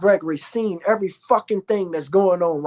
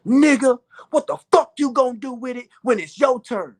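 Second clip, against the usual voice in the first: imitating Dick Gregory; 6 semitones higher than usual. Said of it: "Nigga walked up to me and said".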